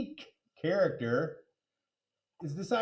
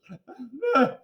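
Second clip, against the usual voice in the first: sob; 7 semitones higher, 3 dB louder than usual. A narrator's reading. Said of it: "Missus Dole started sobbing".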